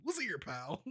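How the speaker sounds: a hint of a folksy white guy, soft; lightly voiced nickname-giving white guy; quiet mock white guy. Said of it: "give you all type of nickname".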